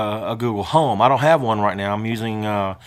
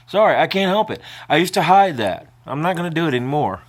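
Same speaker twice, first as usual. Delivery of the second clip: higher, tearful voice; crying; 5 semitones higher, faster than usual. Real, not acted. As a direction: apologise through real tears. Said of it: "you're gonna see me cry".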